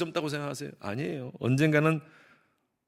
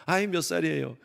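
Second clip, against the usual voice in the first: fond coo. Retold or imitated. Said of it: "머리를 쓰다듬으면서".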